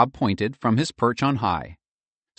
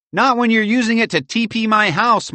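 put-on boy's defiant shout, higher and louder; shouting back; 7 dB louder than usual. A narrator's reading. Michael shouts back at Edgar, defiant and loud. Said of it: "Michael shouted back".

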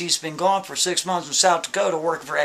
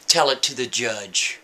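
low, slow flat cop brush-off; deadpan dismissal from the officer; stern cop; 4 semitones lower than usual. Retold or imitated. Cop's stock reply, deep slow.

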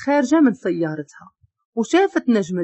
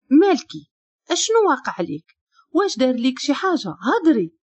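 anxious questions; 4 semitones higher than usual. Acted. Worried man questions fallen woman.

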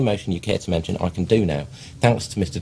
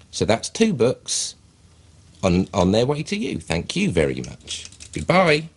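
phone voice. Shown as a demonstration. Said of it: "use a bit of a voice".

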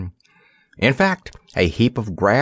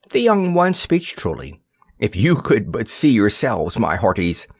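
parrot voice. Acted. Parrot Roger speaking.

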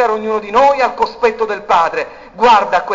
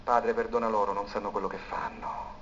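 hushed words of Jesus; 11 semitones lower, 12 dB quieter than usual. Acted. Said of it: "parole benedette".

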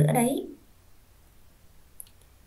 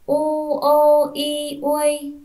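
u o i uôi spelled slowly, high and loud, letter by letter; slow spelling aloud; 4 semitones higher, 4 dB louder, slower than usual. Shown as a demonstration. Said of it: "Còn đánh vần lại". (đánh vần chậm, to, rõ)

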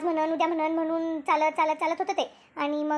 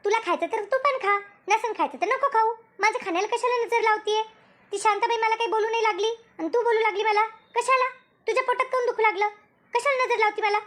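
raised, huffy pitch all through; indignant scolding; 4 semitones higher than usual. Acted. Woman snapping back at her friend for commenting on her eating, huffy and raised. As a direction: bristle as if accused of greed. Acted quarrel over eating chips.

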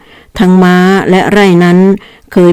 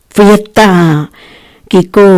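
delighted cry; 2 semitones higher than usual. Acted. Boy Kiko cheering about the coming fiesta, delighted. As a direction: call it out with delight. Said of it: "ร้องขึ้นมาอย่างชอบอกชอบใจ".

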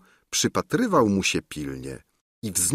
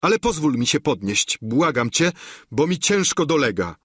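begging knight; 5 semitones higher than usual. Acted. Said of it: "odpowie rycerz".

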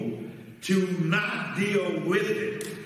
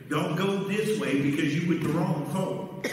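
little inner voice; 4 semitones lower than usual. Retold or imitated. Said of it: "Did you hear that little voice say".

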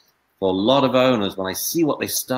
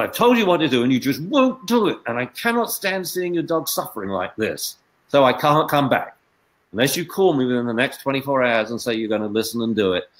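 higher, fast, emotional scolding of the owner; upset pleading scold; 4 semitones higher than usual. Acted. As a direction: plead with the owner, tears close. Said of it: "play acting".

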